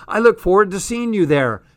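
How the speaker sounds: replaying his words in delight; gushing excited. Jazz swooning to her friend over Tom's words.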